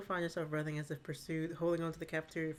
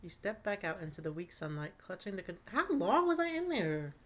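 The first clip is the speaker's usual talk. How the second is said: story narration. A narrator's reading. GM scene narration.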